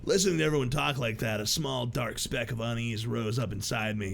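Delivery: low, brooding narrator voice; story narration. Acted. Reads the protagonist's narration.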